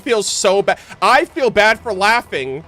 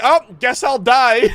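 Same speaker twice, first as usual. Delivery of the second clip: mock despair; 5 semitones higher than usual. Mimics the NPC's despair.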